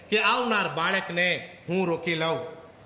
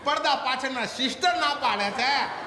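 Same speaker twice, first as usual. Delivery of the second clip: put-on crying child; 4 semitones higher than usual. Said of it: "રડતા રડતા કે".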